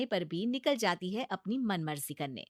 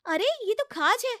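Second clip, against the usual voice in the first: higher, coaxing bahu voice; pleading daughter-in-law; 6 semitones higher, 3 dB louder than usual. Acted. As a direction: talk sense into a stubborn mother-in-law. Bahu schemes about itch. (ऊँची, मनाती हुई बहू की आवाज़)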